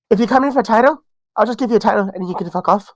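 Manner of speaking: put-on a weak stab at an Irish accent, quick; quoting the boss in a half-hearted Irish lilt; mock Irish accent, barely there; bad Irish accent. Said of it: "That was my worst Irish accent".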